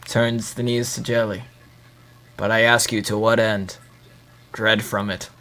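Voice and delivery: low, quiet menacing promo voice; wrestling promo. Pretend. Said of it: "What are you, cutting a promo?".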